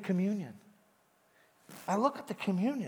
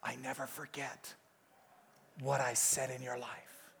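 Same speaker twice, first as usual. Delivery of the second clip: Holy Spirit softly reassuring Gary; tender whisper; 4 semitones lower, 6 dB quieter than usual. Retold or imitated. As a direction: speak it gently as the Holy Spirit. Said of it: "He said".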